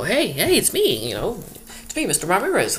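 high, loud, eager calling out; eager greeting. Pretend. Calling hello to someone who ignored you, high and loud. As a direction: wave them down and call out, high and loud. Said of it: "I'm not gonna go".

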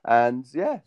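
ordinary talk

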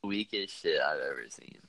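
glitchy robotic connection sound; broken up like a bad call. Real, not acted. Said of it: "you sound like a robot".

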